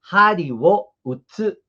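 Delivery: teacher models Hari wo utsu slowly; Japanese phrase demo. Shown as a demonstration. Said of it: "Como hari".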